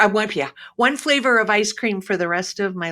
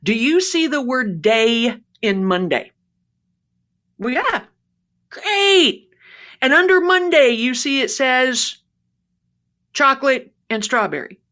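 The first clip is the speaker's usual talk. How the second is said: higher, laughing through a patient explanation; laughing exasperation; 4 semitones higher than usual. Retold or imitated. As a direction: pharmacist losing patience, half laughing.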